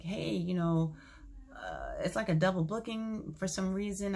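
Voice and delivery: easygoing retelling of a calm phone call; retold calm. Calling the agent about a double booking, calmly retold. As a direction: keep it composed, breaking bad news casually. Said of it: "But I was real calm".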